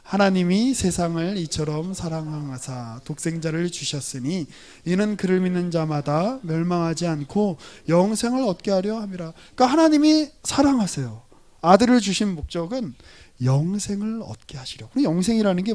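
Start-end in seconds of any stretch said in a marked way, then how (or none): 0.0-9.3 scripture recitation. Real, not acted. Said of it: "시작".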